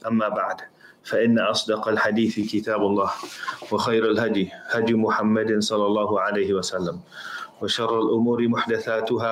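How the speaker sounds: quick, even-pitched Arabic recitation; formulaic sermon opening. Acted.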